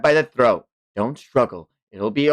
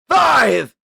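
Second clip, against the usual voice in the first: much higher, louder counting, slow at first; shouted countdown; 13 semitones higher, 7 dB louder than usual. Acted. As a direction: bark each number like a threat. Countdown continues.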